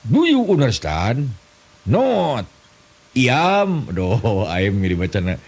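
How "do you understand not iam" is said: much higher, slow mock English; broken English. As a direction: ham up clumsy English. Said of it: "Bahasa Inggris tapi kepakojot". (bahasa Inggris ngawur, nada tinggi dibuat-buat)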